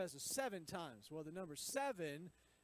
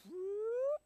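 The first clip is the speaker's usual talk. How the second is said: sudden high, loud whoop; excited whoop; 9 dB louder than usual. Acted. Pastor acting out Jesus stretching the count, a loud playful whoop. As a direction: let the word shoot up with a playful burst.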